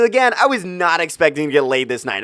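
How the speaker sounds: normal talking voice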